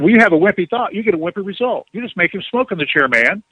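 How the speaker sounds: mock stern, clipped reprimand; curt scolding. Telling him to get on it, mock stern scolding. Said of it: "She was kinda short".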